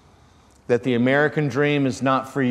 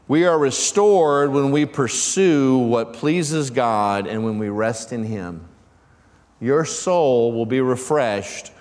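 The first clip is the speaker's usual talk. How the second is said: slow emphatic preaching; slower than usual. Acted.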